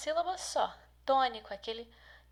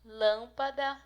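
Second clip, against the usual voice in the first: "Lâmpada" with LÂM leaned on; stress on the first syllable; 4 dB louder, slower than usual. Shown as a demonstration. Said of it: "a sílaba forte aqui". ("Lâmpada" com ênfase na sílaba LÂM)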